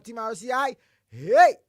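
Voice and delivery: a loud barked hey; loud cheer. Real, not acted. Host cheering the team loudly. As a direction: shout it out.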